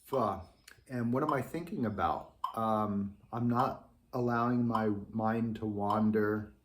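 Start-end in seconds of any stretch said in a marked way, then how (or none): 0.1-0.4 yawning "Oh yeah" then airy "fa". Shown as a demonstration. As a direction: inhale yawn, release on fa. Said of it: "So I'm doing an".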